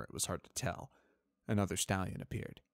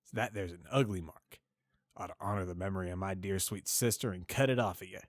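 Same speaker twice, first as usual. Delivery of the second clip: put-on drunken slurred uncle. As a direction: drag the words out drunk and hateful. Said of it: "his hateful, drunken, slurred voice".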